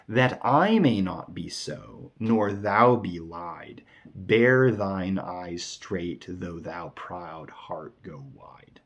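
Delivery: very slow, drawn-out verse; poem reading. Acted. Teacher reading the sonnet's closing lines, slow poem reading. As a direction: recite deliberately, falling to a hushed close.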